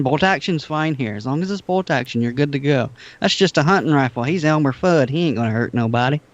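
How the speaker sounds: lightly put-on country accent; a touch of playful country twang. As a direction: slip into a mock country accent. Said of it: "I did a country accent".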